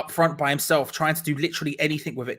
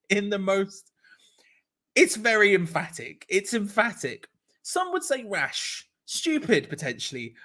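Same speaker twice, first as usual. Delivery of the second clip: 1 mock-serious irony; 5 semitones higher, slower than usual. Real, not acted. Joking about a reckless tackle.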